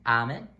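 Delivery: "amen" com A aberto; Spanish A in amen. Shown as a demonstration. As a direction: diga "amen" bem aberto. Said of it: "A, like in amen".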